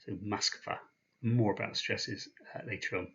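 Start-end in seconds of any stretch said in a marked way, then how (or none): 0.1-0.8 Moskva said mask-VA, first O sounding like A; Moskva, second syllable stressed, O as A; Russian word Moskva. Shown as a demonstration. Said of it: "that first O is pronounced as an A".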